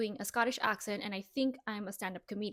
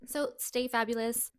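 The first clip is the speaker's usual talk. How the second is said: laughing; 9 dB louder than usual. Real, not acted. Laughing sign-off.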